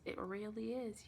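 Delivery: slow, soft whisper. Acted. Vampire recruiter reassures her client, whispering slowly.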